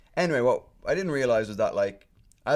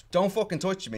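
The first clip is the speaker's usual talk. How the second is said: mock angry warning; 9 semitones higher than usual. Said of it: "I'm like".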